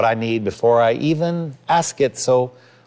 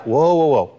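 halting parent; 4 semitones higher than usual. Acted. Parent halting a hysterical child, mock alarmed. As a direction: cut in to stop a frantic child.

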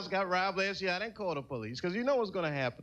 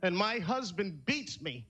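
mock tearful confession; much slower than usual. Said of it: "and she's like".

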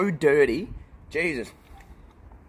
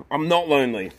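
insistent; 5 semitones lower, faster than usual. Real, not acted.

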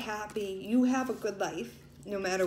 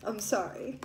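real tears, quietly held back; tearful apology; 4 dB quieter than usual. Real, not acted. Reader apologises to viewers for breaking down, tearful. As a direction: apologise while composing yourself. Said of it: "I don't know why I'm crying right now".

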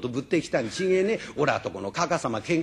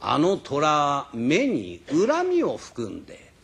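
put-on old master judging; 3 semitones lower, slower than usual. Jingoro judges the tiger. (名人がゆっくり低く評する)

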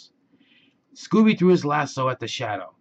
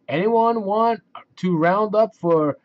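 high, loud cheerful clown voice; a jolly invitation from the clown; the clown offers one more round-up; Jingles the clown; 9 semitones higher, 6 dB louder than usual. Acted. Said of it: "asked Jingles".

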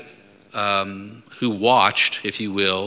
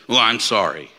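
insincere apology; 5 dB louder than usual. Shown as a demonstration. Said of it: "Well, you're really not sorry".

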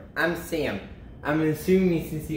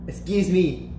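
lightly voiced polite interruption; 3 semitones higher than usual. Polite Idaho interrupts the party from the stage, politely. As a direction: ask for attention with understated politeness. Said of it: "Idaho said politely".

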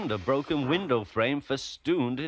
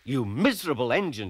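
scolding; 2 semitones higher, faster than usual. Acted. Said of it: "she scolded".

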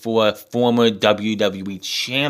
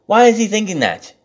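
incredulous outburst; 11 semitones higher, faster than usual. Retold or imitated. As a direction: squeal what the fuck in utter disbelief. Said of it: "I'm like".

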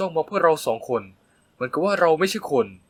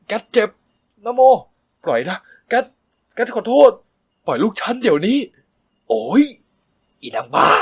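louder, higher yelps; pained cries; 7 semitones higher, 7 dB louder than usual. A narrator's reading. Boy and mother yelling during the fight, pained. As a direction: cry out while being gripped.

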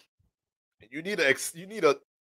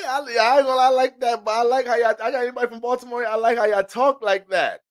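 high, eager Baltimore accent impression; hyped-up Baltimore guy complimenting; 8 semitones higher than usual. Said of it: "them Baltimore niggas".

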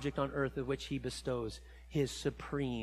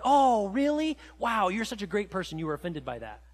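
sarcastic mock praise; 2 semitones higher, 3 dB louder than usual. Sarcastic reply to offended person.

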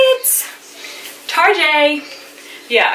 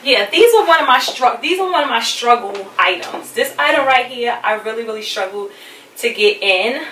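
winded after squeezing into jeans; out of breath. Real, not acted. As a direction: talk while still catching breath. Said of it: "if I sound like I'm a little out of breath".

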